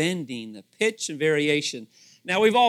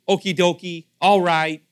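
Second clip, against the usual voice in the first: playful; 7 dB louder than usual. Shown as a demonstration. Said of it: "You know".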